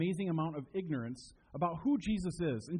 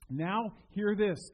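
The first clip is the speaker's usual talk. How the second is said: slow, louder proclamation; voice of God; 4 semitones higher, 5 dB louder, much slower than usual. Acted. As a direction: proclaim it slowly like a royal herald. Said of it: "God says".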